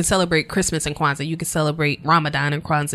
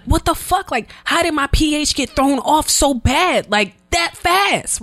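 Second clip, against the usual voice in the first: retold panic; 10 semitones higher, slower than usual.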